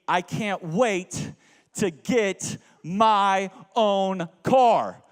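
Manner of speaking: slow, drawn-out whining; dragged-out pleading; whiny wish. Retold or imitated. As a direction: stretch each word like a sulking teen. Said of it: "my response would be".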